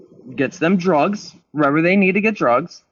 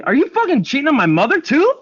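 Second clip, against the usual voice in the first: retold accusation; 10 semitones higher, 3 dB louder than usual. Accusing boyfriend of cheating.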